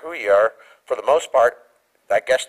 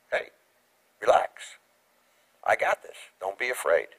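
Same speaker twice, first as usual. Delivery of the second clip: reassuring God; 4 semitones lower, 6 dB quieter than usual. Retold or imitated. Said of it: "And God says".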